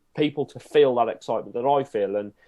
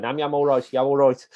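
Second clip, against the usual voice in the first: put-on Black Country accent; 3 semitones higher, 4 dB louder than usual. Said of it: "known as yam yams 'cause we keep going around going".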